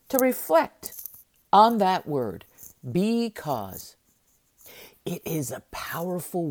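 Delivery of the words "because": "because" set apart and let fall; stress on because. Shown as a demonstration. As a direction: give "because" its own beat, then drop it. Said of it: "I emphasize the word because".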